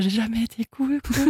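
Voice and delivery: softly put-on very sad air; mock sad. Shown as a demonstration. Singer showing her sad live version, mock sad. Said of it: "je prends un air très triste".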